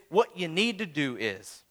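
smug know-it-all quote; hated phrase. Retold or imitated. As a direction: say it like someone handing out advice. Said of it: "But the phrase is".

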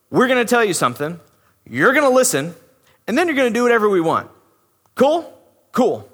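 fast, bossy mock demand; entitled attitude. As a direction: brush him off like a servant. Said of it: "that attitude".

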